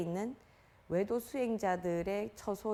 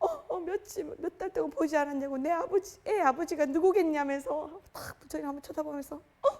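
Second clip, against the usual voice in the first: mock pitiful female voice, fake, higher and louder; 7 semitones higher, 4 dB louder than usual. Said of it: "막 불쌍한 척".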